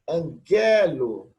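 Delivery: angelo drawn out slowly, both g's clear; slow sounding out. Shown as a demonstration. Teacher showing the two gammas in angelo, slow. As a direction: stretch angelo so they hear each gama. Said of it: "percebam, dois gamas".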